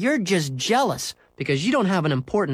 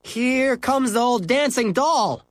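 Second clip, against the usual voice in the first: high, drawn-out taunt; yelling; 12 semitones higher, 4 dB louder, slower than usual. Acted. Henry teasing Mary Jane as she arrives, mocking yell. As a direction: jeer at someone coming down the street. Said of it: "yelled Henry".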